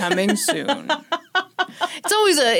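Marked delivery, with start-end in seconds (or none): 0.0-0.9 movie trailer voice. Retold or imitated. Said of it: "it's always a man's voice".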